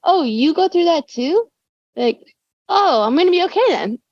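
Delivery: high, half-crying relieved voice; teary relief. Retold or imitated. Imitating a fan who feels seen, high and teary. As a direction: play the listener near tears with relief.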